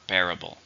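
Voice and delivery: "Bearable" stressed on BEAR; stress on first syllable. Shown as a demonstration. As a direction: say "Bearable" with the weight up front on BEAR. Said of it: "Stress on the first".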